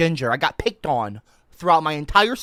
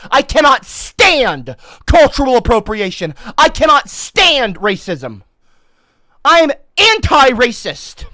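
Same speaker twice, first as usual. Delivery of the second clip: mock outrage; 3 semitones higher, 7 dB louder than usual.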